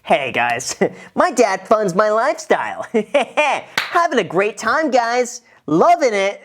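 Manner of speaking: high, giggly vlogger cheer; hammed-up enthusiasm. Shown as a demonstration. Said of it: "there should be some sort of just".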